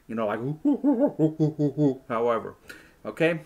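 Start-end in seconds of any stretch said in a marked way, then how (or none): 0.4-2.0 hooting gorilla noise dissolving into a laugh; gorilla sounds. Shown as a demonstration. Showing kids how to do gorilla sounds, playful hooting. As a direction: make your best ape hoots. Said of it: "you make your best gorilla sounds".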